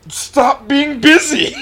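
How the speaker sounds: high, loud, slow mock wail; stretched playful complaint; mock plea. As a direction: whine it out dramatically, half-joking. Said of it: "mock whiny plea to friends".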